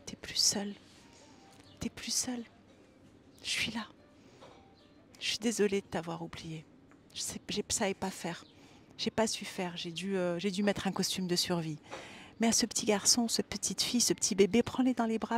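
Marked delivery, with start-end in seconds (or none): 0.1-11.8 tender. Shown as a demonstration. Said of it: "Et dis-lui".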